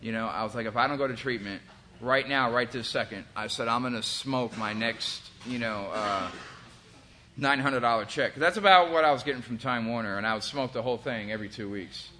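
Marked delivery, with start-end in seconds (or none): 0.7-8.3 tearful desperation. Retold or imitated. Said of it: "sitting there crying to my son".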